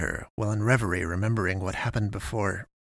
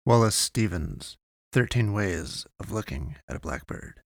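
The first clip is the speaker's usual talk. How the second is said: poem reading. Acted. Reads a poem aloud.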